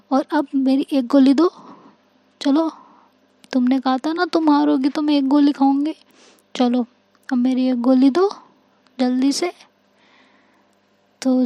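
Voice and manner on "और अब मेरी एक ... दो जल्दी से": lightly voiced eager child, pleading; a hint of an impatient little girl asking for her pill; childlike demand.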